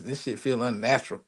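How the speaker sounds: chuckling through the words; half-laughing at his own awkwardness. Real, not acted. Streamer laughing at his clumsy phone setup.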